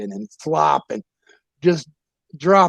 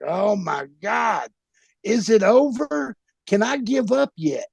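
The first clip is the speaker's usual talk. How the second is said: panicked plea; 7 semitones higher than usual. Retold or imitated. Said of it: "And I'm like".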